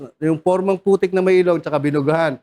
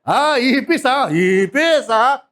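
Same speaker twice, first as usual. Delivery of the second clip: calm authority; 5 semitones higher, much slower than usual. Shown as a demonstration. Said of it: "Hindi gano'n".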